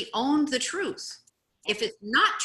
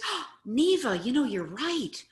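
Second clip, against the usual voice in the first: high, loud mock realization; exaggerated "oh my goodness" admission; acted agreement; 5 semitones higher, 5 dB louder than usual. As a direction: cheerfully own up, hammed-up. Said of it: "What I could say is".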